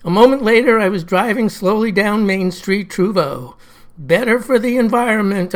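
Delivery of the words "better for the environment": flat robotic voice; robotic monotone. Acted. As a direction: drone it like a machine. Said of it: "in that same monotone".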